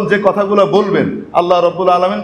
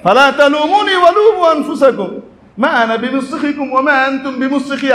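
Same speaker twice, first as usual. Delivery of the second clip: mocking Iblis; 5 semitones higher than usual. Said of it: "সে যা করবে আল্লাহ কোরআন শরীফে বলে দিছেন".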